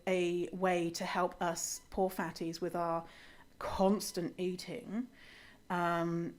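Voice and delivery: soft mock-grateful sarcasm; dry, understated mock self-pity. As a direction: play the helpless, grateful patient, tongue in cheek. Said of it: "that was all sarcasm".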